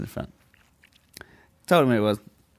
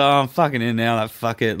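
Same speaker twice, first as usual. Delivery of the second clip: louder, laughing-edged resignation; mock all-in bravado; 5 dB louder than usual. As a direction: throw up your hands, loudly committed. Resigned bravado after confessing.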